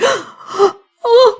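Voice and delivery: high-pitched breathless "oh"s; awestruck, barely talking. Acted. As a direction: gasp like a blown-away, smitten kid. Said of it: "He can barely talk".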